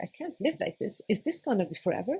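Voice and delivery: panicked despair. Retold or imitated. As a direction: replay the frightened thoughts, quick and thin. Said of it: "I was like".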